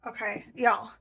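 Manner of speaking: upbeat intro. Real, not acted. Upbeat video opener.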